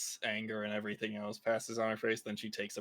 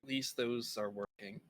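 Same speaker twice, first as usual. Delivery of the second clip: whisper; 5 dB quieter than usual. Acted. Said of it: "and just whisper".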